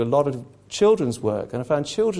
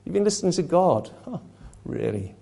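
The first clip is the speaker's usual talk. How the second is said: Satan sneering; 6 semitones lower, 4 dB quieter than usual. Retold or imitated. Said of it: "That's what Satan is doing here".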